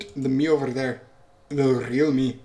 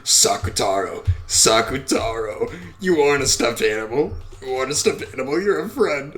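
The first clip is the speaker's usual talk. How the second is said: put-on distraught child witch; 3 dB louder than usual. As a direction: plead desperately with the fading friend.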